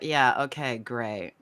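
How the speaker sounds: dismissive, trailing off low; bored mean girl brush-off. Acted. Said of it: "mean girl, like".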